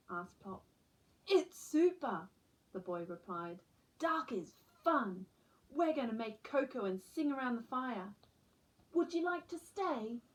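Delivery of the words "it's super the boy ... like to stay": put-on cheery boy. Campfire boy voiced in story.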